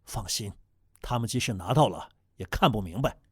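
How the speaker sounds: 压低声音，像地下工作者递暗号; 低声神秘地交代任务; 悄悄话. Pretend. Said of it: "咱们说话小声点". (压低嗓音的秘密交代)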